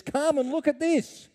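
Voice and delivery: excited apostle calling out; passionate exclamation. Retold or imitated. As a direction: invite them to look in wonder. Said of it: "passionate tone in his voice".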